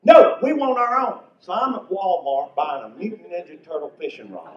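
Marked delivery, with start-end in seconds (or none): 0.0-1.2 put-on high, loud whiny kid refusal; mock whiny children insisting; stubborn kids. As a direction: play the stubborn little kids. Grandkids refusing in retold scene.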